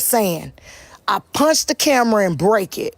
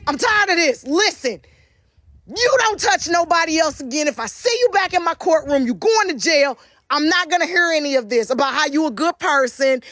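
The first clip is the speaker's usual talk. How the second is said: a lightly raised, exasperated judge laying down the law; frustrated judge; 6 semitones higher than usual. Retold or imitated. Judge warning the defendant in court, mildly exasperated voice. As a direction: scold like a fed-up judge. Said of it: "The judge got frustrated".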